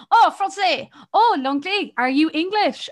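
lightly mock the man's probing; mimicking the stranger. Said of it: "he's like".

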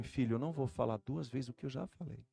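softly, like a breath. Retold or imitated. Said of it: "Ele falou manso".

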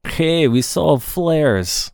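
co-host put on the spot to say the film line, playful Russian accent. Stretch it out in a mock Russian accent. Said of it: "Can you say it in a Russian accent?".

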